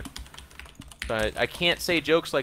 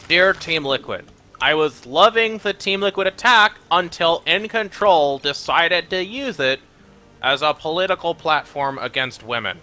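slow, higher, declaimed formal indignation; mock complaint letter; 3 semitones higher, 5 dB louder than usual. Offended viewer writes to the team, mock-formal indignation. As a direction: read it out as a pompous offended viewer.

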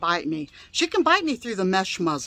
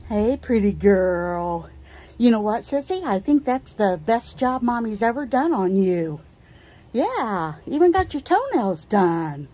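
pet talk. Acted. Cooing to her dog after grooming.

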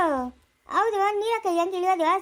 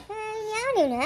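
crying out; 5 semitones higher than usual. Acted. Quarrel, cry heard.

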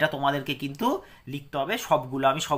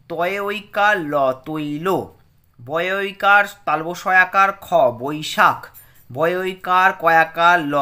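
spelling drill; 4 dB louder, slower than usual. Shown as a demonstration. Teacher spells out word list.

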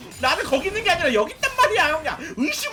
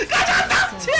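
excited yell; 6 semitones higher than usual. Real, not acted. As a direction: charge in howling with laughter. Excited charge in game.

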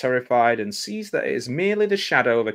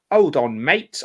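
put-on terrible English accent; 5 dB louder, slower than usual. Reader voicing a droog who notices something, bad English accent. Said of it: "he's in a terrible English accent".

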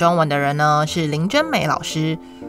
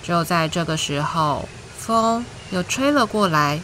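gentle storytime voice, clear and even; reading to a toddler. Acted. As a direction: read it like a bedtime picture book. Reads picture book to children.

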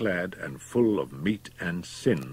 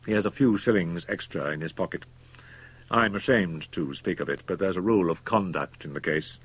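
cold, reasoning doctor; 2 semitones higher, 3 dB louder than usual. Acted. MacFarlane's held voice.

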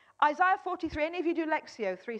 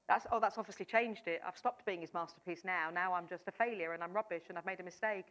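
mock despair; 7 semitones lower, 8 dB quieter than usual. Mock self-doubt after losing confidence.

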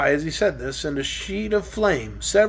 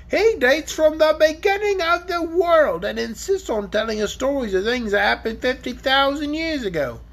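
dragon voice; 5 semitones higher than usual. Acted. Dragon telling the children about his ancestor, lightly voiced. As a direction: play the dragon, grumbling about his grandpa.

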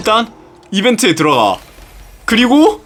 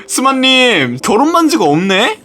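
higher-pitched mock teasing; imagined sarcastic jibe; 4 semitones higher than usual. Imagined viewers teasing the streamer over wedding ring, sarcastic. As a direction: imitate a viewer needling you. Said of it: "하면서 비꼬아짐 당할까봐".

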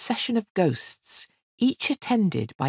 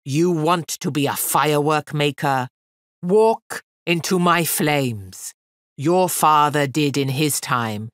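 louder, ringing challenge; ringing fiend; 3 dB louder than usual. Acted. Fiend challenging the girl over the flames, ringing loud. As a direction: call over the roar of fire. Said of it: "his voice rang out clearly over the roar".

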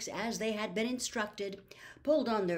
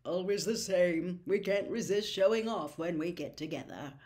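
lightly voiced Mr Weasley. A narrator's reading. Remembered words of Mr Weasley.

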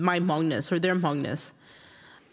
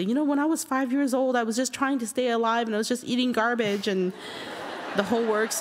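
higher, insistent retold lecture; mock-earnest parent, pitched up; parental guilt-trip lecture; 4 semitones higher than usual. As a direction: lecture a child with your own hardship. Mother's acted lecture to young child.

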